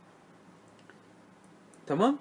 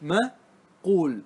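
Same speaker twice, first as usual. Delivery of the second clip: slow spelled-out word; much slower than usual. Shown as a demonstration. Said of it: "ثم صارت الكلمة إيش؟".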